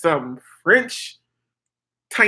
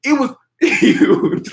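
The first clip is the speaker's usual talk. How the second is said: high, drawn-out "huge" through laughter; amused exaggeration; 10 semitones higher, 4 dB louder, much slower than usual. Real, not acted. Telling viewers about the ridiculous suitcase, high and laughing. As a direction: crack up while stretching the word.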